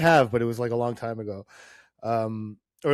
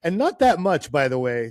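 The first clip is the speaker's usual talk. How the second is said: imitating a pointed but friendly reply, pitched up; good-natured pointed remark; 4 semitones higher, 5 dB louder than usual. Reporter translating a player's French answer, playfully pointed. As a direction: make the retold quip pointed, punch it higher and louder. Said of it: "he just kind of pointed it out, not in, like, a mean way".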